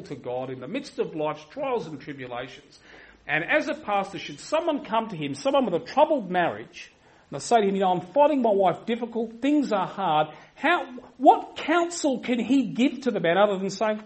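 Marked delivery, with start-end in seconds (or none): 3.2-14.0 loud, rising rhetorical challenge; forceful preaching. Real, not acted. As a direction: build the sermon toward an indignant question.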